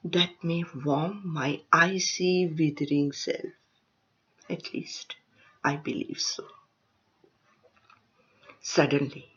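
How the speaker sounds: short phrases set apart by pauses; poetry recitation. Acted. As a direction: recite free verse, letting line ends fall away. Reads her poem aloud.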